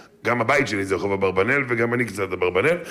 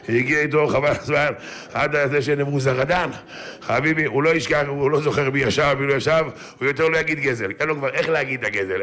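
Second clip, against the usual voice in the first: ordinary talk, nothing marked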